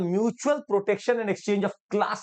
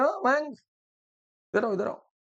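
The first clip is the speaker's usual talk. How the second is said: calling out; 5 semitones higher than usual. Retold or imitated. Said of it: "Jaishankar साहब ने आवाज दिया".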